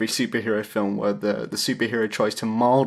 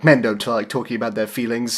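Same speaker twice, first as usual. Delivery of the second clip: laughing; 3 dB louder than usual. Retold or imitated. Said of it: "he gets up and says".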